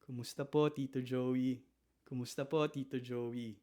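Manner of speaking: soft, bowing lilt with a gentle rise on po; deferential greeting. Shown as a demonstration. Meeting fiance's father for the first time, soft and deferential. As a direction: greet him softly, as if bowing your head. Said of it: "You see how I said that?".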